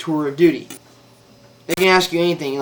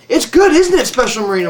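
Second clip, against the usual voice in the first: patronizing; 7 semitones higher, 4 dB louder than usual. Retold or imitated. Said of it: "patronized me".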